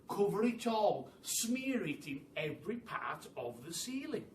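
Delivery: quick, pushy orders from an excited leader; urgent Mugglewump. Acted. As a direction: hurry them all along. Mugglewump urging everyone to hurry.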